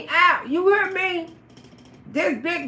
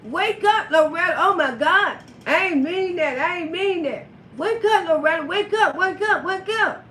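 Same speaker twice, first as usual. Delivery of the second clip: panicked pleading; 4 semitones higher than usual. Retold or imitated. Johnny trying to wake her.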